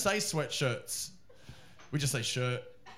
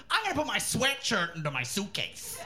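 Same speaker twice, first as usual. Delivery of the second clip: mock American accent announcement; imitating American woman; 3 semitones higher than usual. Nancy at the airport announcing her thought, mock American. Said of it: "She goes".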